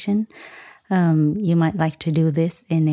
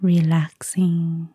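guided meditation. Acted. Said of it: "give us a short guided meditation".

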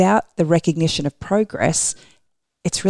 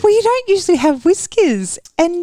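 teasing laugh; 12 semitones higher, 4 dB louder than usual. Real, not acted.

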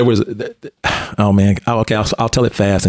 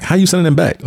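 much higher, pitch jumping up in disbelief; mock shocked, asking how they could; incredulous retold question; 10 semitones higher than usual. Mentor retelling his shock on the phone, higher and disbelieving.

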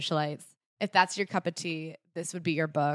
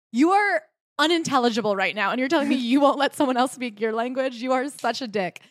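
loud, higher-pitched mock outrage; indignant mock retort; 6 semitones higher, 6 dB louder than usual. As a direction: act out telling off a hypocrite, emphatic and raised. Acts out indignant retort to Frenchman.

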